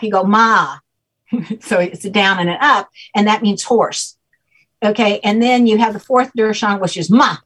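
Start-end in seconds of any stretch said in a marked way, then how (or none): 0.2-0.8 Ma dipped down then back up; dipping third tone ma. Shown as a demonstration. Explaining the horse tone, ma dipping down and up. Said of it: "when it goes down and up". 7.1-7.4 ma dropped sharply like you're mad; falling fourth tone ma. Shown as a demonstration. Demonstrating the angry-sounding tone, sharp falling ma. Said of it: "almost sounds like you're mad".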